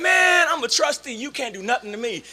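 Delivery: high, loud comeback, easing off at the end; mock indignant protest. Trustee talking back to Josh, mock indignant protest. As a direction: protest loudly, pulling rank. Acted retort to older classmate.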